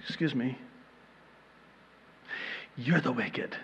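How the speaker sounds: soft, gentle mock correction; still small voice. Holy Spirit correcting the self-righteous reader, still small voice. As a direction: slip it in quietly after a pause. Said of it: "in that still small voice".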